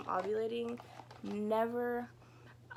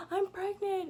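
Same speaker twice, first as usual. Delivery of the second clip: high, loud burst of news; high excited announcement; 11 semitones higher, 4 dB louder, slower than usual. Retold or imitated. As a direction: blurt it out, thrilled and shaky. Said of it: "I called Raj. I was like".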